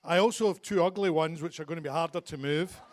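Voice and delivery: thick Glasgow Scottish accent; broad Glaswegian speech. Real, not acted. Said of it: "don't worry if you don't understand my Glaswegian accent".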